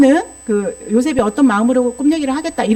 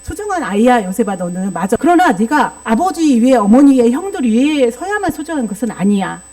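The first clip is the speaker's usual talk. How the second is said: gentle fatherly reassurance. Shown as a demonstration. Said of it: "야곱은 어떻게 조율했어야 할까요".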